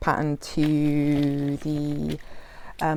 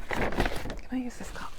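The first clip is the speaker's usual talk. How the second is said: slow, whispered aside to herself; whispered question; 6 semitones higher, 6 dB quieter than usual. Real, not acted. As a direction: ask it under your breath.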